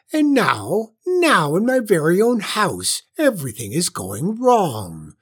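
high, loud, self-pitying witch wail; almost crying. A narrator's reading. Witch lamenting nobody ever scares her, near tears. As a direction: wail it out, feeling sorry for yourself. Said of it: "almost crying now".

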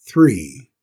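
lightly voiced gruff boss, loud; curt, cross one-word order; cross stable master. A narrator's reading. Tim orders Cinders about, lightly gruff.

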